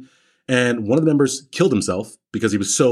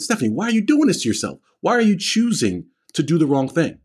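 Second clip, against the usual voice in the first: retold exasperation; 5 semitones higher than usual. Coach confronting a struggling student.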